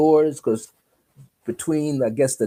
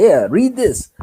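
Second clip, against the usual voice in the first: loud, high-pitched challenge; acted-out forceful command; imitated sharp demand; 8 semitones higher, 6 dB louder than usual. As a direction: throw down a dare, loud and high. Woman thrusts bones, demands reading.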